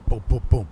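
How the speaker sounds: low knocking booms; three spaced knocks done by mouth; imitated door knocking. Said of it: "out of nowhere, they go".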